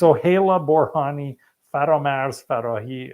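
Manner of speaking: names said in a Persian accent. Real, not acted. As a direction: say the names with native Persian pronunciation. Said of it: "speaking with my Persian accent".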